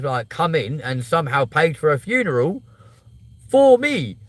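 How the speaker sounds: exasperated protest. Retold or imitated. Retelling arguing with funeral staff.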